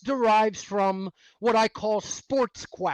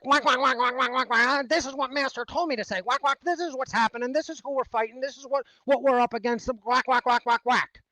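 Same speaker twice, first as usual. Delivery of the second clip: mock duck quacking; 3 semitones higher than usual. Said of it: "and they're like".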